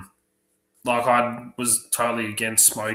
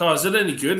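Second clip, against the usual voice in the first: curious friend; 6 semitones higher, 5 dB louder, much faster than usual. Retold or imitated. Quoting the friend's naive question.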